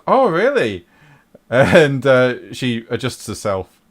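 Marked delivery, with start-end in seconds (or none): 0.1-0.9 high, loud, swooping acted retort; acted teasing comeback. Game master voices darts player answering the lads, high teasing comeback. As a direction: jump up high for a playful comeback. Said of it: "And she goes".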